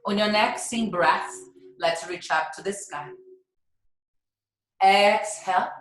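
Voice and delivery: unhurried cueing with stretched key words and long pauses; guided yoga breathing. Real, not acted. Yoga teacher guiding class through cleansing breaths, unhurried breath cues. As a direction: lead them through each breath, drawing out the inhales.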